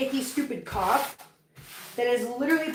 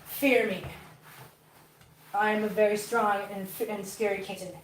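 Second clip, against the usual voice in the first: voicing the kitten; 4 semitones lower, 5 dB quieter than usual. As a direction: lower voice for a scary kitten. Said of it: "He says".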